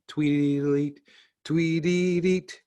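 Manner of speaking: high chirpy bird call; birdsong chirp. Acted. Bird song in story.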